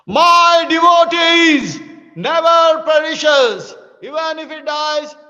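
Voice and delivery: slow, loud, furious declaration from Krishna; angry shout. Acted. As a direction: thunder it at Arjuna, slowing every word. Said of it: "he shouts at Arjuna".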